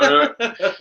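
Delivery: high, giggly "All right"; laughing. Real, not acted. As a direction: laugh it off after nearly saying too much. Laughing after own near-slip.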